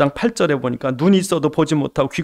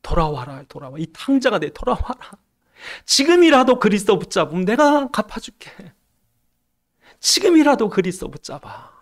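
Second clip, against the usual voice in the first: higher pleading call to come back; pleading God; 5 semitones higher than usual. Acted. God calling the prodigal people back, pleading higher. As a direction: beg the straying son to come home. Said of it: "안타까워서 그런 거야".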